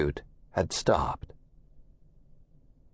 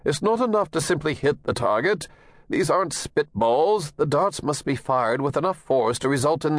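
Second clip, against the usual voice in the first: lightly voiced strict coach, raised pitch; a hint of a demanding coach; stern coach; 5 semitones higher than usual. Coach lectures the boys.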